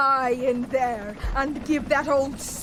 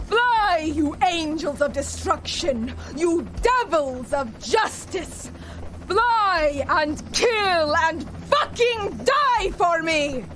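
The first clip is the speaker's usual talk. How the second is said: rallying shout; 3 semitones higher than usual. Acted. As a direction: whip the troops into a frenzy. Villain rallies her troops.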